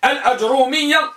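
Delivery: الأجرومية with short a, unvowelled ج, single ر; fatha on hamza. Shown as a demonstration. Teacher spelling out the first type, carefully pronounced. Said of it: "بفتح الهمزة".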